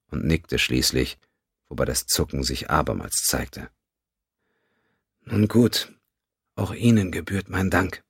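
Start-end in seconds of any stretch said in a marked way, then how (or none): 5.2-8.0 Vulcan woman. A narrator's reading. Teprin speaks again.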